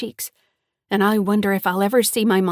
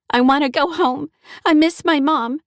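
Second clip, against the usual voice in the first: higher, louder pleading through tears; tearful plea; 7 semitones higher, 5 dB louder than usual. A narrator's reading. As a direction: beg to go home, close to crying. Crying child pleading after sob.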